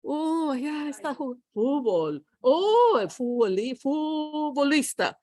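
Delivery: "futbolista" as "foo-bo-lista", T dropped, first vowel drawn out; high "oh", then Spanish with no T in "futbolista"; Spanish pronunciation. Acted. Teacher acting Spanish speakers, "futbolista" without its T. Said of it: "what happens in Spanish?".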